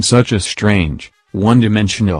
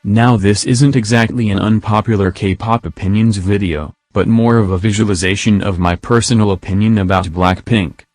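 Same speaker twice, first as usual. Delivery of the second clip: monotone text-to-speech voice; flat synthetic robot read. Real, not acted. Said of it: "I'm using the robot voice".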